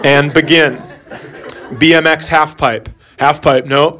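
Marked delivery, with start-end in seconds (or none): 1.8-2.9 reading the browser history. Retold or imitated. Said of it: "read off the browser history".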